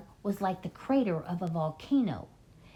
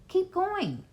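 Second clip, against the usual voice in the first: shout; 12 semitones higher than usual. A narrator's reading. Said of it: "the fat Bogus shouted".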